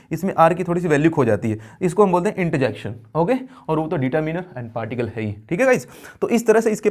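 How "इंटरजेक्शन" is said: इंटरजेक्शन run together as "inta-jekshan"; near-silent R. Shown as a demonstration. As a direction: let the R of इंटरजेक्शन nearly vanish. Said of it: "इतना तेजी से rapidly से हम बोल देते हैं". (इंटरजेक्शन में आर हल्का, लगभग साइलेंट)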